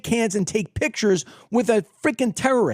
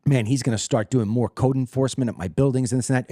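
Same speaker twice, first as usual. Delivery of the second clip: mock Trump musing; 9 semitones lower than usual. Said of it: "sit there and say to myself".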